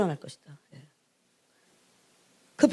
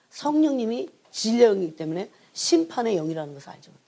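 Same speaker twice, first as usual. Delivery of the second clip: ordinary delivery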